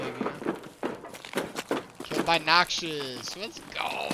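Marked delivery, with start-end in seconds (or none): 2.0-4.1 excited shout. Real, not acted. Celebrating kill in raid.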